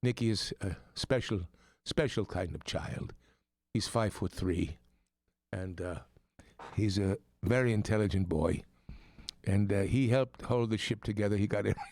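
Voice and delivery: a light Irish accent put on by an American; playful Irish lilt all through. Host greets listeners back in a light Irish accent. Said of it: "if you're hearing my accent".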